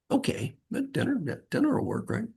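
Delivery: very high, soft squeak of disbelief; mock stunned reply. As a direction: squeak it out like you can't believe your luck. Retold own stunned reaction.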